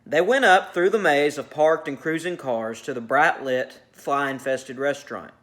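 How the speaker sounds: measured read-aloud of a short story; narrating fiction to a class; story narration. A narrator's reading.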